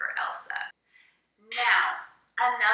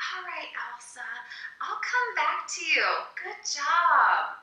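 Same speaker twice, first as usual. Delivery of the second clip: higher-pitched, lilting teacher praise; encouraging teacher; 6 semitones higher than usual. Shown as a demonstration. Teacher reassures young student Elsa, encouraging. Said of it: "you, teacher, says".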